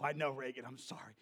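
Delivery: gentle hushed comfort; hushed apology. Retold or imitated. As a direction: soothe her quietly. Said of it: "And I go".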